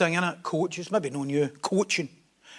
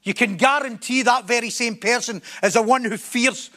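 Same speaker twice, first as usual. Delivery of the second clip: emphatic sermon building in insistence; forceful preaching; 3 semitones higher, 3 dB louder than usual. Real, not acted. Preacher urging people to bare their soul, forceful preaching. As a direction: drive the point home, phrase by phrase.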